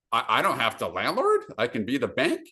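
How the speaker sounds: retold wondering questions, rising at the end; mild disbelief. Landlord hearing he can be the bank, mildly incredulous. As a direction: replay a dawning, hopeful realization.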